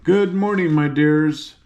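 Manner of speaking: lightly voiced friendly gatekeeper; a hint of a genial guardian; pleasant. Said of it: "Speaking pleasantly to the girls".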